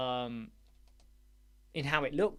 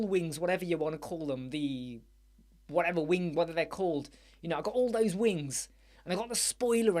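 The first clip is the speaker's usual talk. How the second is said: mock boastful customer; 2 semitones higher than usual. Customer bragging to dealer.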